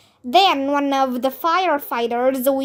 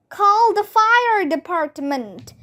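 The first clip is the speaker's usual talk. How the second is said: higher urgent call; shouted; 6 semitones higher than usual. Acted. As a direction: yell for help. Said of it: "I shouted".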